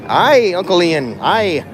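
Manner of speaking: put-on slow, playful Scottish accent. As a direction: greet Uncle Ian in a hammed-up Scottish accent. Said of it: "Good, proper Scottish accent".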